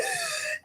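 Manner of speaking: high, sharp intake of breath; acted startled gasp. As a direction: gasp as if jolting awake, acted out. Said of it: "I sat up and I went".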